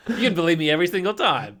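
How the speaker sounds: breathy whisper through laughter, quick; laughing whisper. Real, not acted. To his friend, a laughing whispered confession. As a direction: giggle it out under your breath.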